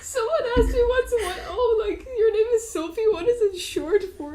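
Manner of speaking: laughing retelling. Real, not acted. Retelling while cracking up.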